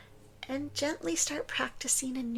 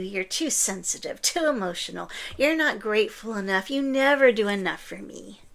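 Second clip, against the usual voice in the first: imitating a narcissist; 5 dB louder than usual. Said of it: "the narcissist is gonna tell you".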